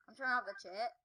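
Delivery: slurred, drowsy words; groggy from anesthesia. Real, not acted. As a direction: mumble like you are half sedated. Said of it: "How come I'm talking really weird?".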